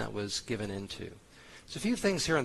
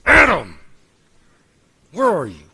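furious shout, much higher and louder; angry booming God; 6 semitones higher, 17 dB louder than usual. Retold or imitated. Pastor mimics the harsh God some imagine, booming shout. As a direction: bellow it like a wrathful judge. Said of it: "thinking God said".

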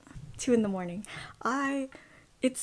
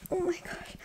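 high, soft, breaking voice; crying softly with relief; teary joy; 7 semitones higher, 5 dB quieter than usual. Real, not acted. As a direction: let the tears catch in your throat. Another acceptance, voice breaking.

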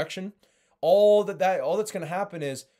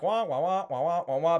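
wah-wah noise; 3 semitones higher than usual. Retold or imitated. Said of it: "and it's just like".

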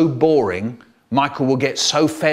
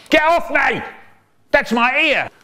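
much higher, louder yelp of protest; pained shout; 12 semitones higher, 4 dB louder than usual. Acted. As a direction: squeal as your ear gets pulled. Being grabbed by the ear.

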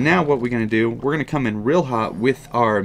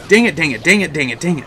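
louder, rapid-fire dang it; frustrated repeated cursing; 3 semitones higher, 4 dB louder, faster than usual. Real, not acted. Gamer cursing a bad play, rapid and loud. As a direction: spit it out over and over.

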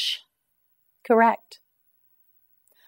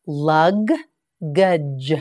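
"Luggage" drawn out slowly, each sound held; teacher stretching "Luggage" for learners; slow, stretched model. Shown as a demonstration. Teacher models "Luggage" slowly for students, drawn out. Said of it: "You try it".

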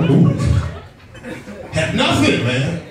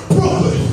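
BROOKLYN puffed out like a shot; sudden, explosive Brooklyn; gunshot-like word. Shown as a demonstration. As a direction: shoot the word Brooklyn at them. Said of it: "Sound like you just shot somebody".

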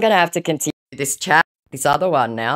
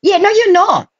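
raised, scornful retort; scornful anger; 4 semitones higher than usual. Real, not acted. Scolding the scammer for using AI, raised and scornful. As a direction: cut his apology down.

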